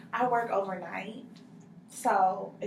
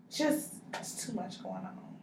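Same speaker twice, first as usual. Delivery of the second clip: whispered; 3 semitones higher, 6 dB quieter than usual. Acted. Overwhelmed client trails off.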